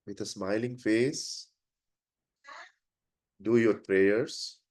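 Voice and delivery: unhurried instructions with long pauses; guided prayer. Real, not acted. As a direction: guide the group gently into silent prayer. Leads a silent prayer.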